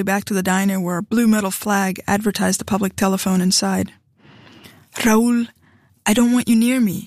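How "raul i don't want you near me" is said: firm warning. A narrator's reading. Warning husband away.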